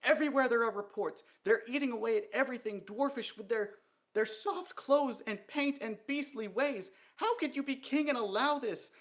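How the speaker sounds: high, loud, furious rant near tears; venomous tirade, sobbing. A narrator's reading. Dee rants to the king about female dwarfs, venomous and sobbing. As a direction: spit every word with venom until it breaks. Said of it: "a word sprayed with so much venom".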